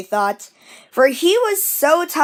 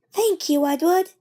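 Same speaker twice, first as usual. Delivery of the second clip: grateful coaches; 6 semitones higher than usual. Acted. Coaches thanking.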